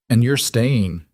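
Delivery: "And you're staying" said as a statement, no questioning lift; statement, not question. A narrator's reading. Surgeon to Emily in trauma bay, "And you're staying" stated, not asked. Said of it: "It wasn't a question".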